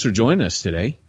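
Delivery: airline captain over the intercom; pilot voice. Acted. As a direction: announce it like a cockpit PA. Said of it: "gotta put on your best pilot voice".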